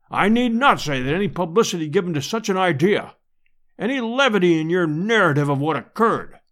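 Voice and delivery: lightly voiced scholar standing on dignity; understated, stately displeasure; pompous professor, solemnly offended.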